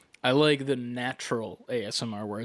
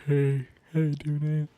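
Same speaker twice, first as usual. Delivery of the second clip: put-on Valley Girl voice. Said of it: "That sounds like a Valley Girl".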